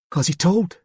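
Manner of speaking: put-on young lad with a Cockney accent; Cockney accent, boyish voice. A narrator's reading. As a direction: say it as a Cockney schoolboy. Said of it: "it was a boy with a Cockney accent".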